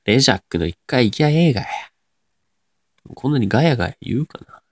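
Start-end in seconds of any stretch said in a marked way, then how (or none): 0.1-1.7 Nagoya dialect answer; 名古屋弁. Shown as a demonstration. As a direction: suggest it in broad Nagoya intonation. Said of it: "名古屋弁っぽい言葉を喋ってみて". (名古屋弁っぽく答える)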